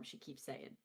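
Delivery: whispering. Acted. Aside about the aunt.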